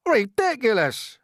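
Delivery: high, loud, drawn-out outraged shout. Acted. Creatures shouting down James's plan, outraged shout. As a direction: scoff in outrage. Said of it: "they shouted".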